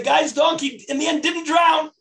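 high, loud burst at the twist; surprised shout at the turn of the story; excited exclamation. Real, not acted. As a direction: announce the surprise ending with a loud cry.

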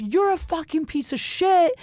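high-pitched retold outburst, not shouted; mock angry insult. Girlfriend hitting back at her boyfriend, mock angry insult. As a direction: hurl the insult in mock indignation.

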